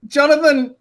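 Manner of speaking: high, loud, silly salesman voice; stupid character voice. Retold or imitated. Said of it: "a stupid voice comes out".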